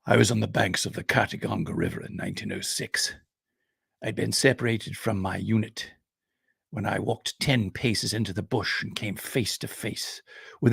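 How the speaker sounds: lightly voiced aged officer recalling; old field marshal. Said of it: "the old man thinks for a minute and says".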